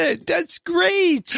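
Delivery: high slow Canadian reply; Canadian accent. Retold or imitated. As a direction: drawl it out Canadian-style. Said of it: "I say".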